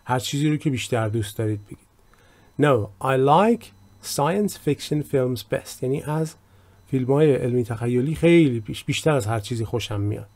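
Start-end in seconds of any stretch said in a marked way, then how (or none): 2.6-5.8 slow, clear English example read; slow model reading. Shown as a demonstration. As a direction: read it out slowly for learners. Teacher reads example slowly. (خواندن آهسته و شمرده)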